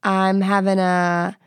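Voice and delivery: hammed-up confession to her partner; mock confession. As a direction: stumble into it like a big reveal. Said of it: "you don't have to say it like that".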